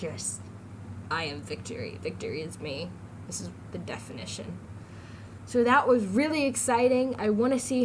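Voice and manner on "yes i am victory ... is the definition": low, grand victory voice; mock triumphant. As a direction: proclaim like a conqueror. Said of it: "I'm like".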